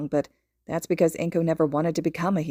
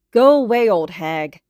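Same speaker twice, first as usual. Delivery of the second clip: bratty yell; 3 semitones higher, 9 dB louder than usual. A narrator's reading. Boy shouts back rudely at his mother.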